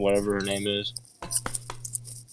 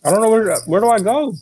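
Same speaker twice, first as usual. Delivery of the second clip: exasperated; 12 semitones higher, 5 dB louder than usual. Real, not acted. Frustrated player asks the GM.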